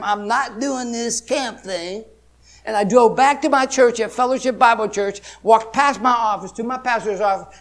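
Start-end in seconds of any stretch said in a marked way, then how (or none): 0.0-2.0 retold prayer. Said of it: "telling him".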